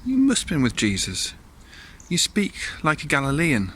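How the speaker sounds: acted challenge from onlookers; accusing crowd. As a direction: point the finger at him. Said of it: "a group of people come up to Peter and say".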